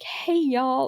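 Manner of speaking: put-on light Southern accent on Hey, y'all. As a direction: mimic a little kid's Southern greeting. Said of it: "I used to talk so Southern".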